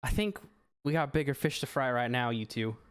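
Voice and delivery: winded hero, starting high and sinking; breathing hard. Acted. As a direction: push the words out while short of breath. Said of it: "like, breathing hard".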